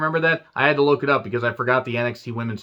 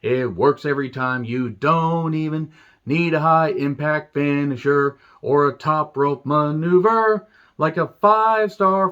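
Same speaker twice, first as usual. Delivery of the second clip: William Regal impression; slower than usual. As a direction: drag out every word like a smug old wrestler teaching a trick. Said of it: "try to do the William Regal voice".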